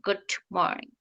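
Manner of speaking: গুড মর্নিং run together, গুড nearly swallowed; গুড মর্নিং said softly and fast, d barely heard; fast American greeting. Shown as a demonstration. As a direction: slur গুড into মর্নিং quickly. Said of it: "ওরা গুড".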